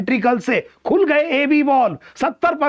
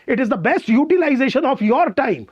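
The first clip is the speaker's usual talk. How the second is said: slow emphatic English; much slower than usual. Shown as a demonstration. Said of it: "teacher stresses key line".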